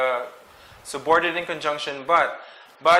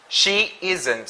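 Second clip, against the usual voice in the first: SHE ISN'T said firmly, a bit raised; emphatic stress; 3 semitones higher than usual. Shown as a demonstration. Teacher reading the phrase after a dash, emphatic stress on "She isn't". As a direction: put weight on both words of "She isn't". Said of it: "you emphasize this word".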